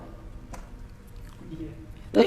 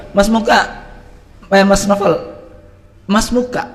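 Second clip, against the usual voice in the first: formal address demo; 6 semitones higher, 4 dB louder than usual. Retold or imitated. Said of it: "saya ngomong begini sama Muska".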